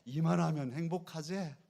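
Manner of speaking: loud, lifted 이만하면 행복하제 for the crowd to echo; rousing preacher's call-and-response; loud call to repeat. Shown as a demonstration. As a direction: call it out so the congregation can repeat. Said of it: "우리 한번 해보십시다".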